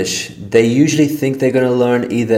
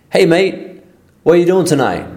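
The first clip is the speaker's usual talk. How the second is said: raised, lively call to a mate; acted Aussie greeting; 7 semitones higher than usual. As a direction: greet your mate brightly, Aussie style. Acted Aussie dialogue example.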